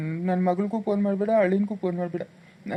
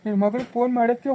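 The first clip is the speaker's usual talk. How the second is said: urgent pleading. Acted. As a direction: stop her in a panic. Husband begging wife not to call.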